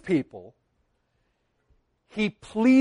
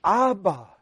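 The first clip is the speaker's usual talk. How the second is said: tender plea. Retold or imitated. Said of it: "You see where Jesus was going".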